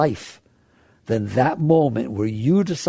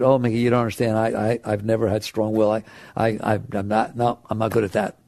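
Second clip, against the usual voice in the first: whiny excuse; 5 semitones lower, faster than usual. Retold or imitated. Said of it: "don't take the attitude".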